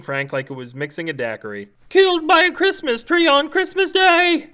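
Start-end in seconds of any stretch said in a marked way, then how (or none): 1.9-4.5 high, strained groan of despair. A narrator's reading. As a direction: groan it out like doom is near. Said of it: "Frank groaned".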